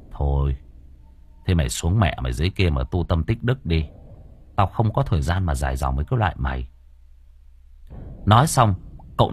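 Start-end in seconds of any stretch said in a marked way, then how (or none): 0.1-6.7 weary sigh. Acted. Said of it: "Cậu thở dài".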